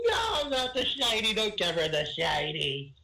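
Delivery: high, slow blubbering plea. Acted. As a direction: beg through mock sobs. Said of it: "I am pleading, blubbering".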